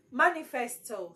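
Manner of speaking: manifesto with weight on the opening MA; MA-nifesto, tune falling after MA; stress on MA. Shown as a demonstration. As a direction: punch the first syllable of Manifesto. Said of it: "So ma, your stress is on ma".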